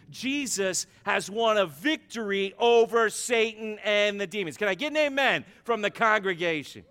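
loud, emphatic pulpit delivery; rally the congregation for an amen; rousing preaching. Real, not acted.

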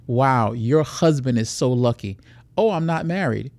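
lightly voiced predator chatting up a woman; acted nightclub pickup. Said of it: "walk you through a quick scenario".

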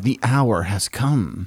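mildly dramatic announcement. Real, not acted. Co-host quoting Paul on the hour, mildly dramatic. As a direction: give the phrase a touch of weighty drama. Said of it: "Oh, that's very dramatic".

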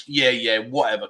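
low, offhand brush-off; dismissive. Acted. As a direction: brush someone off, voice dropped. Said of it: "kinda like a derogatory".

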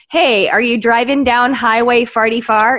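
Saint Louis "farty far" vowels; Saint Louis accent. Retold or imitated. Local asking about the highway, Saint Louis accent. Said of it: "they say".

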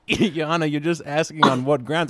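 exasperated courtroom appeal; exasperated objection. Acted. Lawyer protests to an unresponsive judge.

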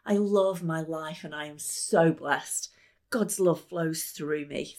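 slow, felt affirmation; slow heartfelt chant of blessing; incantation. Shown as a demonstration. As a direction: say it like you mean every word. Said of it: "things like".

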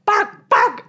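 high, loud yappy barks; barking dog. Acted. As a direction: bark out like a small dog.

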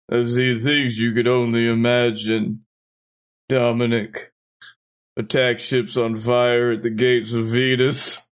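low, solemn deathbed monologue; dying villain. Acted. Dying clone's last words to Dominic, low solemn monologue. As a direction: let it sink low, pausing between phrases. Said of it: "He dies at the end. He's like".

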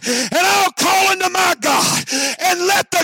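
slow, high, ringing proclamation; climactic proclamation. Acted. Elijah calls on God to answer by fire, slow ringing proclamation. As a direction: stretch each word out to the crowd.

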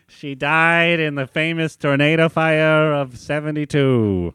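slow newsreel announcer voice; old-timey reporter. Acted. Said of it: "You sound like an old-timey reporter".

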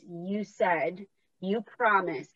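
quiet, understated reminder; soft God voice. Acted. God reminding her of a promise, quiet and understated. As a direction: gently hold someone to a promise, softly voiced. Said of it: "And God's voice, the soul voice, is".

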